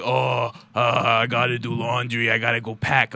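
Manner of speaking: lightly voiced weary roommate; a low, mildly put-upon retelling; weary groan. Friend imitating a classmate packing for a trip, mild weary groan. Roommate grumbling about leaving.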